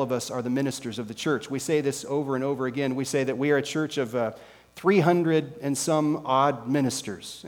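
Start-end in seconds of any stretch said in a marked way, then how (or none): 4.8-7.4 odd said slowly with a wry weight; stress on odd. Shown as a demonstration. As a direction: lean on the word odd, slowly. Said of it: "let me emphasize the word odd".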